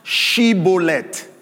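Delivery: "Shibboleth" said slowly, opening on a clear SH; test-word pronunciation. Retold or imitated. Preacher voices captors testing an accent, slow, deliberate "Shibboleth" with SH. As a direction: draw out "Shibboleth" as a word to be copied. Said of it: "Pronounce Shibboleth".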